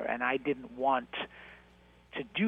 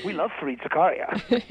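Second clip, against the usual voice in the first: "Oh, that's great" pitched higher and louder, gushing; mock eager; 6 semitones higher, 6 dB louder than usual. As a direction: gush like an eager producer. Producers' eager reply, retold.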